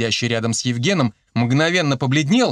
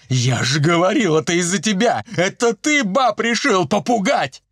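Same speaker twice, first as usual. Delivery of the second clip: accusing, climbing higher to the end; mildly roaring accusation; 6 semitones higher than usual. A narrator's reading. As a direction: turn on a culprit with rising anger. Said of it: "взревел самый здоровый и кинулся". (сердито обвиняя, всё выше)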